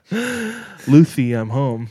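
put-on high childlike voice with a lisp; little kid with a lisp. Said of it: "that's how young me would say it".

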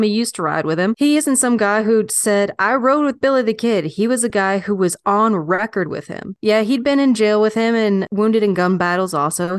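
lightly put-on old West storyteller accent; L'Amour's accent. Recalling an old gunfighter for a documentary, in a light accent. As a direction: reminisce in a mild folksy Western accent. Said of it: "I'm loving the accent".

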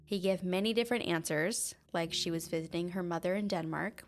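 measured, even podcast storytelling voice; true crime narration. Acted. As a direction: narrate the case calmly over the music. Continues case narration.

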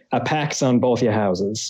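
thick New England accent, pahks on both yah houses. Shown as a demonstration. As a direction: lay on a heavy Boston-style New England accent. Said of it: "say with a thick New England accent".

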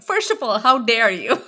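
comically offended retort; Mindy Kaling. Retold or imitated. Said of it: "like Mindy Kaling in The Office".

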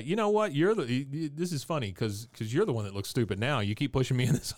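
a smug professor, chuckling; mock gloating professor. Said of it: "he says".

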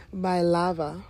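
talking with a retainer in; words round a retainer; wearing a retainer. Real, not acted. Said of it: "I gotta take my retainer on".

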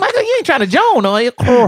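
a singer's voice. Retold or imitated. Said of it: "He would say my name like".

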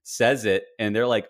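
ordinary delivery

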